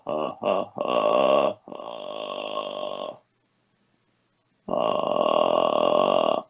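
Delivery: low creaky fry on uh; vocal fry. Shown as a demonstration. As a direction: drop into deep creak. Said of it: "this really dark resonance".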